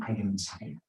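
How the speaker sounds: a light hint of a thick Nigerian accent. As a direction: imitate a Nigerian dad sighing he's tired, lightly. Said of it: "as my Nigerian father would say in this thick accent".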